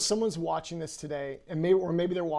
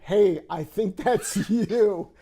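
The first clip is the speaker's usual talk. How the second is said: slow, loud teasing line broken by a laugh; 2 semitones higher, 5 dB louder, much slower than usual. Retold or imitated. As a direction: tease your spouse, laughing. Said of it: "they're like".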